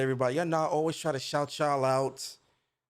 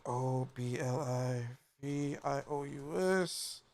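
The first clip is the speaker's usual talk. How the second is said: spelled out slowly; 7 dB quieter, slower than usual. Shown as a demonstration. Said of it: "Go support".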